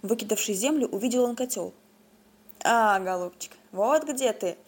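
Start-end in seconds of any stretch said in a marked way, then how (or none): 2.6-4.6 mild cry out. Acted. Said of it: "вскрикнул дед".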